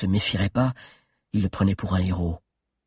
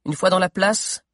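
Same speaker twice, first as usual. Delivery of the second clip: voix de Mordelia; 9 semitones higher than usual. Acted. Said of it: "continua-t-elle".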